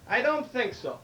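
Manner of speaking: drawn-out, measured punchline; slow, deliberate comeback; slow deliberate reply. Acted. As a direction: stretch it out, savoring the payback. Jewish passenger delivers slow punchline.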